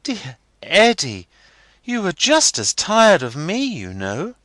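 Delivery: put-on high, coaxing girlish plea; pleadingly. A narrator's reading. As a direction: win him back gently. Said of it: "and pleadingly too".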